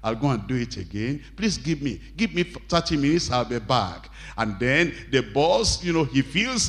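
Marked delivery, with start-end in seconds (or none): 0.0-4.1 meek apology. Retold or imitated. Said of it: "you still smiled and you said".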